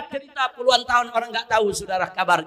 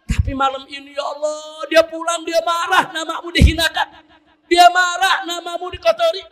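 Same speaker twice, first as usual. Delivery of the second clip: a mother pleading in prayer, half-shouted and higher; mother's tearful prayer; 3 semitones higher than usual. Acted. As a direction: beg God for your son, voice climbing. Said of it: "ini ibu sujud syukur kepada Allah, mohon".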